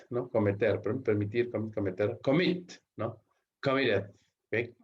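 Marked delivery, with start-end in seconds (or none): 2.2-2.7 "Commit" higher, rising onto "mit"; stress on last syllable. Shown as a demonstration. Teacher repeating the example, "Commit" stressed on MIT. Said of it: "la mayor fuerza de voz está sobre la última".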